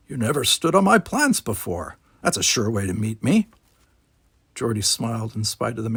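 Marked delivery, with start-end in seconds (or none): 0.1-3.5 put-on grumpy old man.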